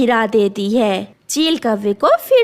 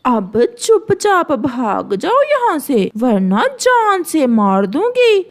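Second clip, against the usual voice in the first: menacing eagle. Acted. Eagle threatening the beaten crow, coldly menacing. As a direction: warn him off for the last time.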